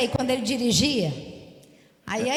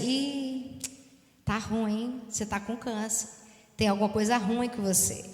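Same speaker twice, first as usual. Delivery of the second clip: hushed death voice; 5 dB quieter than usual. Retold or imitated. Voicing the spirit of death.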